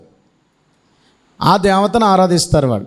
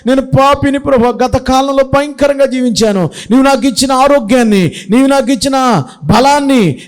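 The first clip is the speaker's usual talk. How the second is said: higher, weeping confession to the Lord; tearful prayer; 4 semitones higher than usual. Acted. Samson confesses his sins to God, tearful and pleading. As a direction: confess through tears, begging. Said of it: "ఇప్పుడు ఏడుస్తున్నాడు".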